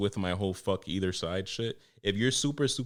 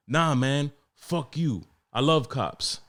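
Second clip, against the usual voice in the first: mock angry customer; 5 semitones higher, 3 dB louder, slower than usual. Mimics a second customer objecting.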